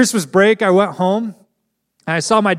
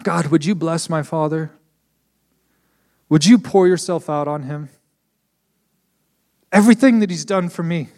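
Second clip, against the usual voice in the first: halting prayer; 6 semitones lower than usual. Retold or imitated. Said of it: "I said".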